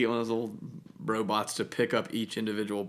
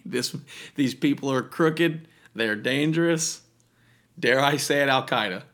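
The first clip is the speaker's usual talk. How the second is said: dramatic prosecutor; 2 semitones higher, 3 dB louder than usual. Pretend. Mock prosecutor accusation.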